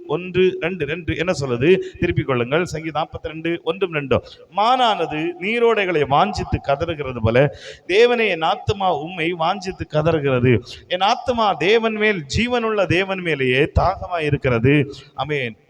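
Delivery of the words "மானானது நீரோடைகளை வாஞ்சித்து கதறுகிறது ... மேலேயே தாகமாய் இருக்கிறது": slow, loud, declaimed psalm; measured, forceful Bible reading; scripture reading. Acted. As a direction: proclaim the verse to the congregation, drawn out. Reads the psalm aloud.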